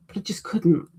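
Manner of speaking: soft unvoiced whisper to herself; hushed inner voice; whispered thought.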